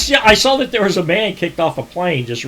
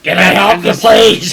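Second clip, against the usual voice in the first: imitated gravelly voice; 4 semitones higher, 5 dB louder, slower than usual. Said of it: "the voice that I get back is this gravelly".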